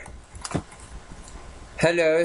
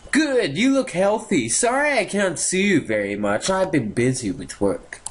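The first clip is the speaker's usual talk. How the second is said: mother voice; 5 semitones higher than usual. Acted. Voicing the mother in the game.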